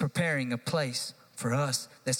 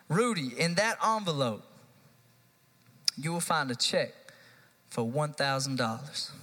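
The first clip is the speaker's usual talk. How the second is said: mock serious offer. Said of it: "I'm just playing".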